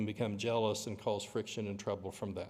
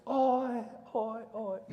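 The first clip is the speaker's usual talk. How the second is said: very high hollered cheer, loud first call; imitated holler; 13 semitones higher, 4 dB louder, much slower than usual. Preacher imitating brother cheering from court's other side, high holler. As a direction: belt out the answering chant like a lone supporter. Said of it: "He hollers".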